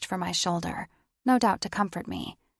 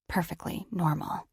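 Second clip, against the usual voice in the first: deflated irony. A narrator's reading. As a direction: let "Perfectly normal" fall flat and rueful. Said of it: "So that probably didn't look".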